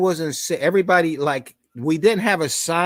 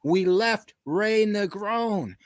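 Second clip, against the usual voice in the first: retold scream; 8 semitones higher, slower than usual. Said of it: "Catfish screams out".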